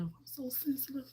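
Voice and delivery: unvoiced whispered confession; soft self-conscious whisper. Real, not acted. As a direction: breathe it out as a secret.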